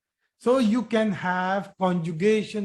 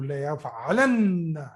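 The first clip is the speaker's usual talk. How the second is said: La yaf'alan said slowly and low, the final n pressed; teacher stressing La yaf'alan slowly; slow, lower La yaf'alan; 4 semitones lower than usual. Shown as a demonstration. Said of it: "Here there is a emphasis".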